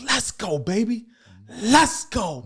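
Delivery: high, pumped rally cry; hype shout. Retold or imitated. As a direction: fire up a football team. Hyping up the room.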